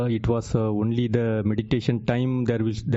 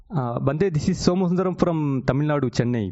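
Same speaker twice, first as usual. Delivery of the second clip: to someone hard of hearing; 5 semitones higher than usual. Real, not acted. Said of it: "Please repeat anyway".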